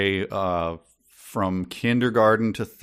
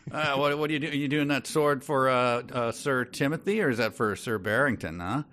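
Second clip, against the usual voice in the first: Gordle's voice; 5 semitones higher than usual. Retold or imitated. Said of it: "he goes".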